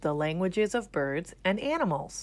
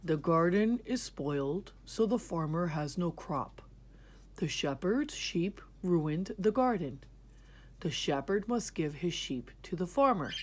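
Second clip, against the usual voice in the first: 1 king's judgment. Acted. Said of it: "The king thought for a minute and then said".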